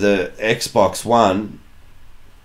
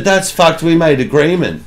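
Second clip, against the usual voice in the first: mock indignant; 6 semitones higher than usual. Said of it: "I said".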